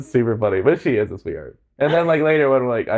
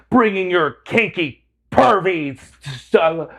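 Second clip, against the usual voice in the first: slow, higher-pitched retold telling-off; mock scolding; 5 semitones higher, slower than usual. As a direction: imitate her outraged lecture, drawn out. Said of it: "thirty seconds of scolding".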